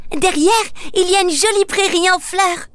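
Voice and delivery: high, eager little ogre sister. Acted. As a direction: tempt him with the meadow. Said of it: "s'exclame sa sœur". (petite sœur ogre, voix aiguë et enthousiaste)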